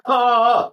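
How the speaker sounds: high open coughed "ah"; one full cough-like vocal burst; normal cough "ah". Shown as a demonstration. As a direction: demonstrate a voiced cough. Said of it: "that's a normal cough".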